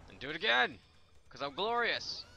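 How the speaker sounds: triumphant boast. Pretend. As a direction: proclaim it with mock grandeur. Boasting during gameplay.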